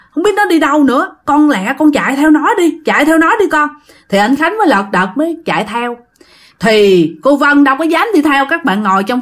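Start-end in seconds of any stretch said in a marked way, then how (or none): 0.1-3.7 urgent plea. Acted. Frightened mother sends son after child.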